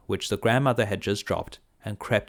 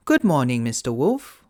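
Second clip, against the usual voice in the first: put-on little girl voice; 4 semitones higher, 5 dB louder than usual. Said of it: "she said to the wolf".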